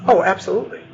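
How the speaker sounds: high-pitched, obliging server; Wendy the waitress. Acted. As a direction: chirp it like an eager waitress. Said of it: "I am Wendy".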